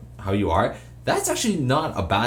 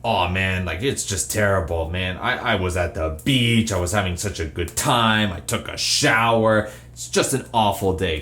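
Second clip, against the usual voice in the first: fake complaining; 3 semitones lower than usual. Shown as a demonstration. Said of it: "with that same tone as you said terrible".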